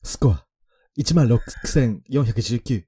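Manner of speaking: slow score announcement; game announcer voice. Acted. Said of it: "ちょっとやらせていただいてましたけど".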